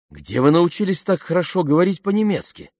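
high, wondering question; surprised. A narrator's reading. Rescued woman asks rescuer about the language, surprised. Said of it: "удивилась Марго".

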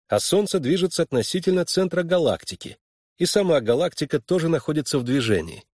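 arguing a point. Acted. Young Harlan disputing with his mentor, arguing. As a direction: press the objection home.

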